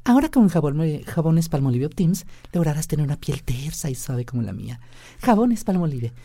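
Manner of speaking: high female ad read; man doing a woman's voice. Shown as a demonstration. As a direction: sell the soap as a woman. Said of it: "la voz de una mujer diciendo".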